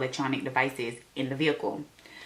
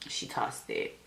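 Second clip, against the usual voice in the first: unvoiced, softer echo for effect; hushed repeat; 9 dB quieter, slower than usual. Real, not acted. Storyteller repeating that the girl threw out her gum, hushed. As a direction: drop to a near whisper.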